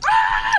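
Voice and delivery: loud high-pitched yell; reenacted frantic shriek; battle scream. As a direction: scream wildly while swinging punches. Reenacts fighting off two scare actors.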